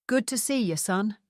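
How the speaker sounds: warm Scottish father's greeting, broad Scottish vowels; strong Scottish accent. Acted. Father greets his grown son, in a Scottish accent. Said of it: "he said in his strong Scottish accent".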